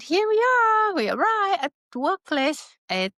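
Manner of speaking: retold call, pitched well up; mock announcement. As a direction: imitate a boss calling out on arrival. Boss announces arrival in retold quote.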